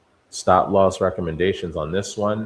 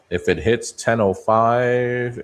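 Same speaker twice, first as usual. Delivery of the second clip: "If" leaned on, the line slow and a bit higher; emphasis on if; 5 semitones higher, 4 dB louder, slower than usual. Shown as a demonstration. Trader stressing the condition to viewers, slow emphasis on if. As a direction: hit "If" and take the rest slowly. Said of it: "Emphasis on the if".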